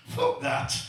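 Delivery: high, breathy scoffing guy; dismissive guy. Retold or imitated. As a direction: wave the idea off sharply. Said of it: "Another guy said".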